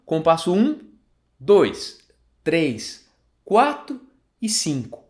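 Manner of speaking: beat-by-beat count, each number set apart; counting along. Shown as a demonstration. Teacher counting bars aloud with the student. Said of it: "conta comigo".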